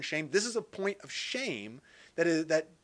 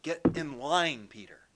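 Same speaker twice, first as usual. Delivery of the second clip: firm teacher; 2 semitones lower than usual. Retold or imitated.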